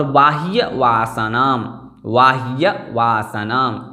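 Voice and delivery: बाह्य said slowly, ending in a clear full य, like बाहिय; full ya sound. Shown as a demonstration. Teacher making students hear the full य in बाह्य. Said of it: "यकार पूर्ण बोलना चाहिए".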